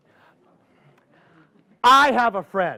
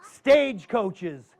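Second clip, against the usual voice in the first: spooky story narration; slower than usual. Acted. Tells a spooky tale.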